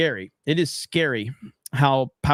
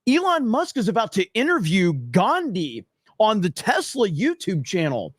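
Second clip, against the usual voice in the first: higher, mock-credulous fan voice; gullible fan; 4 semitones higher than usual. Mocking fans who tell Jeremy about Elon videos, higher mock voice. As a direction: ham up the gullible viewer. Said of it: "they're like".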